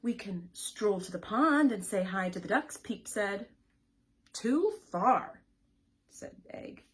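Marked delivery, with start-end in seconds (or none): 0.0-2.8 louder eager invitation; louder eager little chick. Acted. Peep pleading with egg. 4.3-5.4 loud sharp no; loud grumpy egg; loud refusal. Acted.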